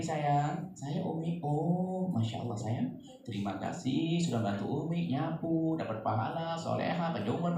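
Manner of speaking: put-on soft, tender praise for a child; gentle mother. (ibu lembut memuji anak, lebih pelan)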